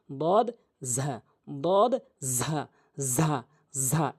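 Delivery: "দদ" heavy, "ঝা" long and buzzed; slow, separated "দদ, ঝা" for copying; model "দদ, ঝা". Shown as a demonstration. Teacher models letters to be repeated, emphatic "দদ, ঝা". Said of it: "এভাবে উচ্চারণ করবেন".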